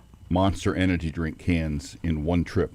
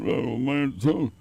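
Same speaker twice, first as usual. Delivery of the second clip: higher pitched imitation of Wemby's casual exclamations; a light mock of Wemby, slowly drawn out; Wemby impression; 6 semitones higher, slower than usual. Imitating Wemby for his co-host, lightly voiced and higher. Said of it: "John Thompson with a French accent".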